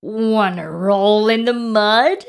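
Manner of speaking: loud, lightly voiced pig character; a hint of pig, rising at the end; storybook pig. A narrator's reading. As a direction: invite heartily as the pig. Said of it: "grunted the pig".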